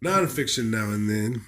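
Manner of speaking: lightly voiced pompous old man; put-on elderly reviewer voice. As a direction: play an appalled elderly book critic. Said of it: "Is this guy like a eighty-year-old".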